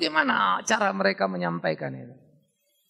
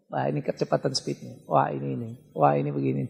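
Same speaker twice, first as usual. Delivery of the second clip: noticing own mistakes; 5 semitones lower than usual. Retold or imitated. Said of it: "Saya sadar loh".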